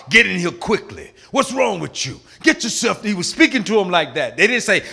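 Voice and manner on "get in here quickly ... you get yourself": mock sharp drill sergeant orders. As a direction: bark it like a drill sergeant, lightly. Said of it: "he was talking to him sharp".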